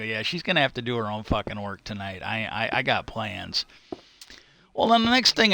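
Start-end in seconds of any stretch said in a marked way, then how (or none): 0.0-3.7 understated deadpan, a little lower; retold dead serious. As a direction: repeat it deadpan, without joking. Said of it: "looked at him just dead serious".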